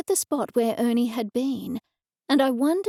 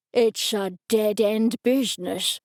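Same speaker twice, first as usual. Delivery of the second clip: cackling. A narrator's reading. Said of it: "he said with a cackle".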